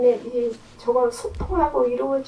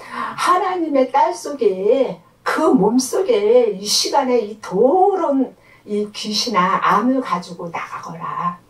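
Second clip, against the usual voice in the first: re-enacted exorcism command; fervent deliverance prayer. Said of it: "하면서 얼마나 기도했는지요".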